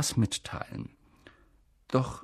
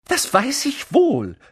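half exasperated, half admiring; 13 semitones higher, 5 dB louder than usual. A narrator's reading. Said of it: "halb aufgebracht, halb bewundernd".

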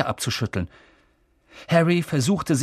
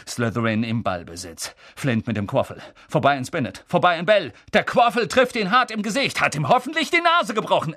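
sports commentator; 3 semitones higher than usual. Acted. Lee commentates the match.

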